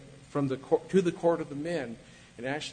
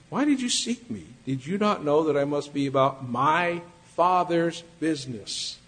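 firm, deliberate question, louder; purposeful emphasis; 4 dB louder than usual. Acted. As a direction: stress every word with purpose. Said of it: "Very purposely and with emphasis".

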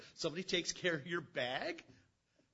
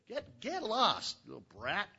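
slow scornful dismissal; 4 semitones higher, 3 dB louder, slower than usual. Acted. Brothers dismissing David.

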